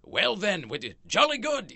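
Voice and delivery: high, loud, hammed-up accent impression; mock Australian clerk. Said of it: "he's doing, like, the little head movement".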